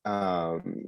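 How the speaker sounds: talking around new braces. Real, not acted. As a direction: speak like braces fill your mouth. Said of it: "I might be talking a little funny".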